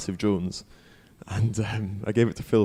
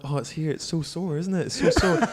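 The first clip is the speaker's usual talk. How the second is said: mock whining; 7 semitones higher than usual. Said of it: "And he's like".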